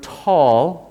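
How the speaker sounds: "tall" with a puff of air after the T; aspirated T. Shown as a demonstration. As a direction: stretch "tall", opening on a breathy H after T. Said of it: "the T is aspirated".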